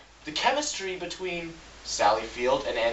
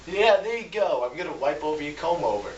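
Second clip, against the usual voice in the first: a touch higher, lightly mocking voice; mock villain talking down; 4 semitones higher than usual. Reviewer mocks Max talking to his boss, lightly voiced. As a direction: talk down to him like a child, lightly. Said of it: "scene where he's like".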